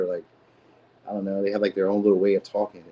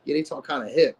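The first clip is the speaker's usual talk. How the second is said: a light mock of an old head saying hip, a little higher; 5 semitones higher than usual. Mocking his own words in a light old head voice. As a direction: lightly put on like an uncool older man. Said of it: "I talk like an old head when I said that".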